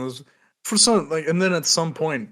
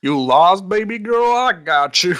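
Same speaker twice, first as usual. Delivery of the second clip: oily pickup line, pitched up; sleazy flirt voice; 5 semitones higher, 5 dB louder than usual. Retold or imitated. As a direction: coo it like a creep. Mocking the creepy guy.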